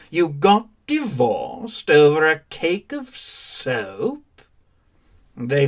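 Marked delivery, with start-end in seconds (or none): 0.1-4.4 slow, disbelieving put-on voice; incredulous mockery. Quoting gossiping people, slow and incredulous. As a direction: drag it out as if it's absurd. People mocking a soap divorce.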